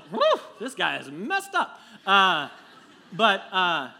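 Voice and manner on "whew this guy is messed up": dismayed aside. Retold or imitated. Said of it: "you'd go".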